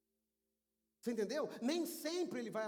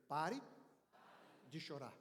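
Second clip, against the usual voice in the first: rising first word, pause, low hushed ending; solemn prompt; 6 semitones lower, 6 dB quieter, slower than usual. Shown as a demonstration. Preacher has congregation repeat with him, solemn and low. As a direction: hand it out piece by piece.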